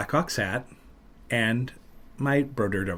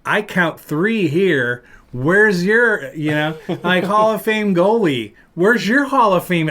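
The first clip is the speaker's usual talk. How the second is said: loud, slow, high taunting yell at rival fans; gloating stadium yell; retold taunting scream; 5 semitones higher, 6 dB louder, slower than usual. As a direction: scream it over the crowd, gloating.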